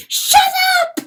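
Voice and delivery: loud furious yell; screaming. Acted. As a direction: scream at the sea. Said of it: "screamed Pertalote at the sea".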